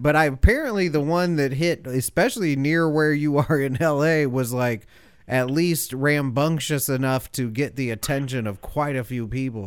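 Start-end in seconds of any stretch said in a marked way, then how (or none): 4.3-9.6 chewing ice while talking; mouth full. Real, not acted. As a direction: talk through a mouthful of ice. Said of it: "you can hear me chewing ice".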